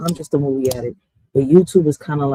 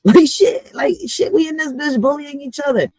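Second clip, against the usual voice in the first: high, laughing outrage at fellow Americans; laughing disbelief; 9 semitones higher than usual. Real, not acted. To viewers, laughing in disbelief at American citizens.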